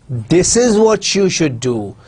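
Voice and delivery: slow, deliberate focus on This at the start; stress on This. Shown as a demonstration. Teacher showing students a changed focus, slow stress on This. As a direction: lean on the opening This, drawing the sentence out slowly. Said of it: "stressing the word this".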